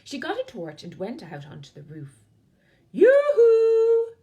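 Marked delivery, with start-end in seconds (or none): 2.9-4.1 high, loud long call. Acted. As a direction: call across the night. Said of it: "she called".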